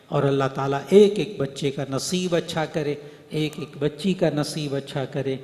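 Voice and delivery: earnest closing supplication; prayer. Real, not acted. Preacher prays for teachers and children, earnest supplication. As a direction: pray over the students steadily.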